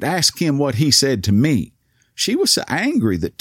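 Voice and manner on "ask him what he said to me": higher, more insistent demand; indignant demand. Retold or imitated. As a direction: insist as an offended cashier, mildly heated. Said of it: "she demanded".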